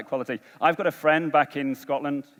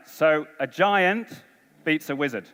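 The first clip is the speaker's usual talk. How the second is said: slow and deliberate; slower than usual. Shown as a demonstration. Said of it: "listen really carefully".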